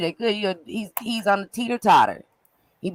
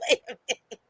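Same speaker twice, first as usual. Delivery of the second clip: retold bafflement; 7 semitones higher than usual. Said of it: "I was like".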